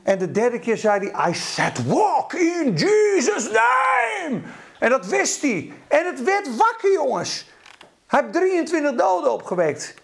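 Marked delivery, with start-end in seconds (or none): 1.3-4.4 preacher's booming command; commanding shout. Retold or imitated. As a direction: bellow it slowly like a healer raising the dead. Preacher voices Wigglesworth commanding corpse.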